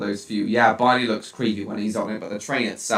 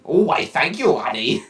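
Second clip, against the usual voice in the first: put-on Irish accent; 4 semitones higher than usual. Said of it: "You like my Irish accent?".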